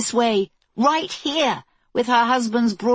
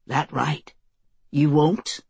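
put-on Southern accent; 3 semitones lower, slower than usual. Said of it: "southern twang showing up".

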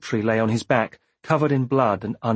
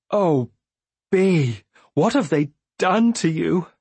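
higher-pitched, pitying exclamation; pained dismay; 5 semitones higher, slower than usual. A narrator's reading. Lant takes in Bee's scars, in pained dismay. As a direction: let dismay lift the pitch.

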